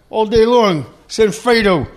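hammed-up mob boss line; lightly voiced movie gangster; mixed famous parts voice. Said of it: "in The Godfather".

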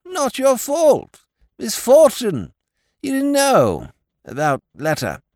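high, slow, emphatic toff voice; a dim, friendly lord pleading his case; high and loud, slow clipped phrases; silly-ass lord. A narrator's reading. Lord Drever's voice.

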